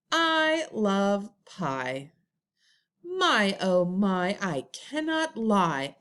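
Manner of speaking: put-on slow, measured poem reading to young pupils. Shown as a demonstration. Teacher reading a rhyme to her class, slow and measured. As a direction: read each line slowly for first graders to hear.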